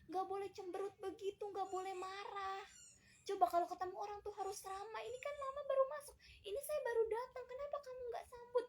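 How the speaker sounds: high-pitched scolding singsong, rising as it goes; lecturing mother. Acted. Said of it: "Terus kita ngomong gini".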